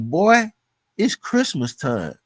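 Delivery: mentor's upbeat call, drawn out slowly; a happy boss hyping his worn-out worker, slow; cheerful boss. Retold or imitated. Mentor hyping his sweating worker, slow upbeat call. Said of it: "so he like".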